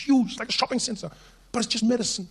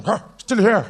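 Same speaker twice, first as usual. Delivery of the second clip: a startled mock gasp into louder words; surprised old; 2 semitones higher, 4 dB louder, slower than usual. Very old person waking every morning, mock surprise. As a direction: wake up astonished to be alive. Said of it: "That's, like, surprised old".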